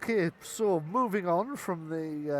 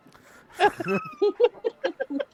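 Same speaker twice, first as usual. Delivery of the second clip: high cackle; 11 dB louder than usual. Acted. Goblin cackle after mad people.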